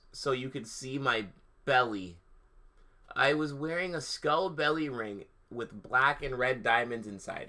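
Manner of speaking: hammed-up reading of bad fan fiction; mock-earnest story narration; mock dramatic reading. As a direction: read it like a deadpan goth diary. Reads the fan fiction aloud.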